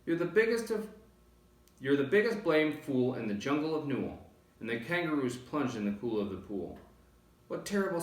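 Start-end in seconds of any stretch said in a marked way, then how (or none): 0.1-4.2 high, loud little jeering voice; a cheeky joey taunting the elephant; high squeaky taunt; young kangaroo. A narrator's reading.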